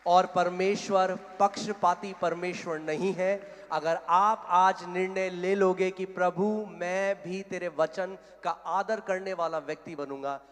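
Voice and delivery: loud, slow, weighty pulpit promise; emphatic preaching. Real, not acted. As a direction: press each phrase firmly on the listeners. (ज़ोर देकर धीमा उपदेश)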